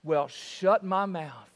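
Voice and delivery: Southern saying. Shown as a demonstration. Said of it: "was the phrase".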